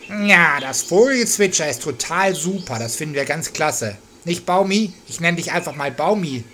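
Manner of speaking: lauter, höherer Naturwesen-Ton; leicht gespieltes, munteres Naturwesen; Hutzlibub. Acted. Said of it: "lieber Hutzlibub". (Hutzlibub, munter und erhoben)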